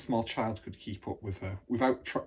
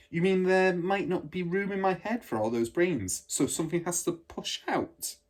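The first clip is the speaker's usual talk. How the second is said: put-on curious little girl; 8 semitones higher than usual. Matilda wondering aloud.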